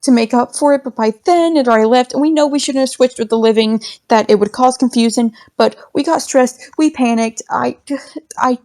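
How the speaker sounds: lightly voiced ghost, nervously rambling. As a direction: fumble the apology quickly. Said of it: "rub their necks nervously".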